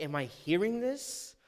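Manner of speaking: mildly hammed-up disbelief; imitating someone who can't believe what he hears; baffled, shocked king. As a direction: play a stunned king, lightly. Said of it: "the king is baffled. He is shocked".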